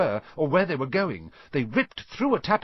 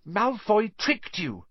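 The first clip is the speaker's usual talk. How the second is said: put-on girl voice; 11 semitones higher, slower than usual. A narrator's reading. Hermione voiced high.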